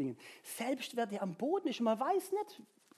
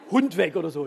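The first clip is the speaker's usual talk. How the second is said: laughing; 2 semitones lower, 8 dB louder than usual. Real, not acted. Joking about a neighbour's dog.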